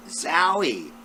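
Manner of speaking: loud, high burst of surprise; excited exclamation. Acted. Ada exclaiming at a horrible smell, loud and surprised. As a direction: blurt it out at the stench. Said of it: "said Ada".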